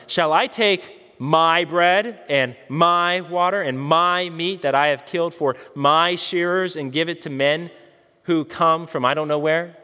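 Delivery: slow reading with weight on "my" in "my bread and my water"; emphasized reading. Shown as a demonstration. Preacher reading the verse to his congregation, stressing each "my". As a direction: lean on each "my" in "my bread and my water" and "my meat", unhurried. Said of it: "I'm gonna emphasize some of the words".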